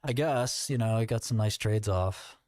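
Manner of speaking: mock Trump boasting about his trades; light Trump impression, breezy and pleased; lightly voiced Trump. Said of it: "His voice just got gravelly".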